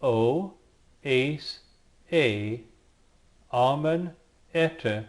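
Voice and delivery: teacher reciting the ending syllables one by one; slow, separate Greek ending drill; Greek endings spelled out. Shown as a demonstration. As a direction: sound out each Greek ending on its own.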